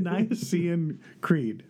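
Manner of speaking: slow, unsure, with a laugh; halting attempt. Real, not acted. Co-host fumbling the creed's name for listeners, halting and unsure. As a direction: stumble slowly into it, amused at yourself. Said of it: "don't know how to say it".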